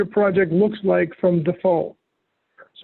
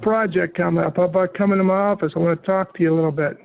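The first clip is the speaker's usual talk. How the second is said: put-on a light New York accent, quick and casual. Software trainer playing a New York boss, light New York accent. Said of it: "That was my New York accent".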